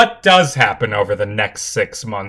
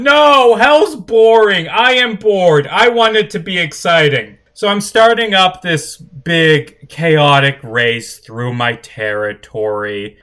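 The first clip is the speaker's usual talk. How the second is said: warm regal boom; 4 semitones higher than usual. Acted. Duke rants on the broadcast.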